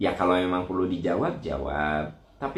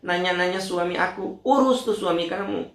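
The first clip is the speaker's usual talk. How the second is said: higher, snappy annoyed comeback; mock irritated retort; 9 semitones higher than usual. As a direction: fire back, fed up. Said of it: "Kalau kitanya kesel". (balasan kesal yang agak tinggi)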